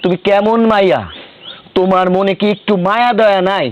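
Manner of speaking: heated reproach to a wife; worked-up husband taking her to task; agitated. Acted. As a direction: scold her in mild agitation. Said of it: "এত উত্তেজিত হয়ে কথা কইবা না".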